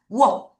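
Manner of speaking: "워" isolated as a rounded glide; W sound. Shown as a demonstration. Teacher checking exact pronunciation, "워" said alone. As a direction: sound out the start of warm, "워". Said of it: "다시 한번 정확하게".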